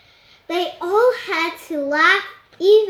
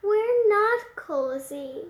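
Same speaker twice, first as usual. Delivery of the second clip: sniffling; 3 semitones higher than usual. Acted. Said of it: "sniffing, sniffling".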